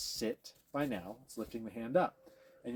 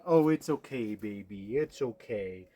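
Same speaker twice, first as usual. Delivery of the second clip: coddling; 6 dB louder, slower than usual. Shown as a demonstration. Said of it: "The other thing we want to avoid".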